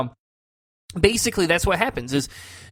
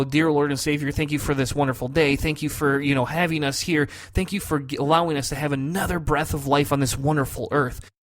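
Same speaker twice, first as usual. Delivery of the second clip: prayer. Shown as a demonstration. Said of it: "the prayer kinda went a little bit like this".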